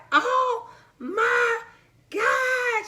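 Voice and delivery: high, laughing, tearful squeal; mom's excited shriek. Retold or imitated. Mom hears twins news, excited high squeal. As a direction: squeal it like a thrilled mom on the phone. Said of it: "She said".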